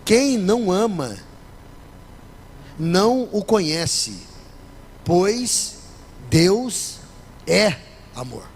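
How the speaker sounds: slow, weighty reading of the verse; solemn scripture reading. Acted. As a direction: read it slowly, each phrase apart. (leitura solene e pausada do versículo)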